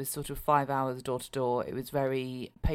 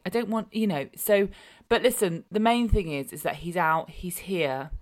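normal talking voice

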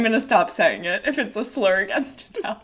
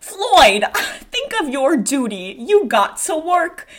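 higher-pitched, mildly scolding sweetheart; play-scold an amorous boyfriend; lightly acted, fussing protest; scolding Dora; 4 semitones higher than usual.

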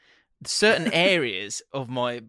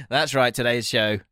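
playful sponsor read, lightly hammed. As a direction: read the ad copy with a grin. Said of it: "Now, let me read".

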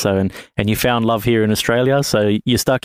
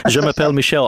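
attempting French; 5 semitones higher, faster than usual. Shown as a demonstration. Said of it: "my French is horrible".

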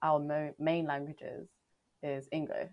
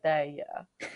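put-on pate said with a Vietnamese accent; 3 semitones lower than usual. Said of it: "but in an accent".

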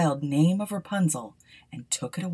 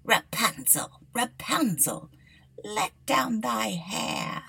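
enchantress calling; 3 semitones higher, slower than usual. A narrator's reading. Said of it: "he heard how she cried".

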